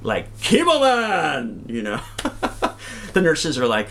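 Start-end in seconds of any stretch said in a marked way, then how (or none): 0.4-1.6 slow, proud superhero announcement; drawn-out triumphant Chemo Man; heroic entrance. Retold or imitated. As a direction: burst in like a caped hero. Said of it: "I ran in like".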